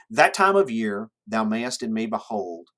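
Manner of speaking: connected verse reading, lifted at the opening; poem reading. Shown as a demonstration. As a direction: read the line as flowing verse for a class. Reads the sonnet aloud to class.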